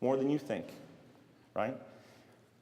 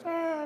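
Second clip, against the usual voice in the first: mock scream. Boy playing with melting army men, mock screaming. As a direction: imitate a toy soldier screaming.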